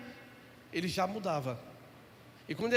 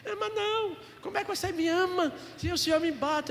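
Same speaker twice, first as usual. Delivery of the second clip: put-on child's protest; 10 semitones higher than usual. Son protests father's love.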